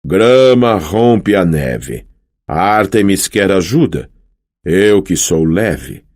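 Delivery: slow, grand poem recital with long pauses; hammed-up haiku, slowly savoured; dramatic haiku recital. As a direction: declaim the haiku like a proud poet. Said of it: "ergueu uma das mãos dramaticamente".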